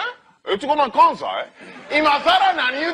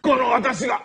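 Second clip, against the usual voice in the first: 斬られる雑魚. Acted. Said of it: "斬られる雑魚役".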